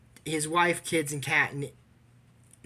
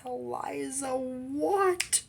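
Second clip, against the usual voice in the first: calling out; 10 semitones higher, much slower than usual. Retold or imitated. Calling Eliza, retold scene.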